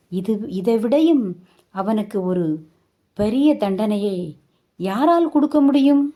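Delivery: retold grandma's rising rebuke; scolding grandmother. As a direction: tell her off like an exasperated old grandmother. Grandma scolds mother sharply.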